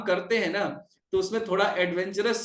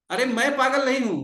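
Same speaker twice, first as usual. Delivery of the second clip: raised, higher indignant voice; indignant protest; 5 semitones higher, 4 dB louder than usual. Acted. Nityananda retorts to Haridas, indignant raised voice. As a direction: throw the insult back, louder and higher. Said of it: "तो कहते हैं कि".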